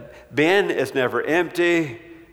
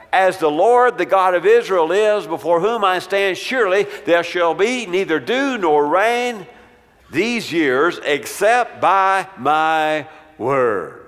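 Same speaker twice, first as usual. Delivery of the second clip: raised, louder proclamation, slowing hard on the last words; bold prophetic declaration; 4 semitones higher, 4 dB louder than usual. Acted. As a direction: thunder it out like a prophet before the king. Elijah's oath voiced to Ahab.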